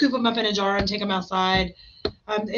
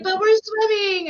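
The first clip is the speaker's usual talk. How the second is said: high, drawn-out whine; mock-tearful child protest; whining kids; 11 semitones higher, 4 dB louder than usual. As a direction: imitate boys protesting in a slow whine. Voices boys protesting leaving pool.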